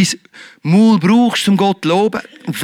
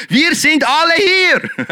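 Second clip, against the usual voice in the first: called out; 8 semitones higher, slower than usual. A narrator's reading. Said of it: "rief da Paulus laut".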